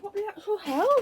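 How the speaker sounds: sudden high startled outburst. Real, not acted. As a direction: jump at the surprise. Chair hits something behind her.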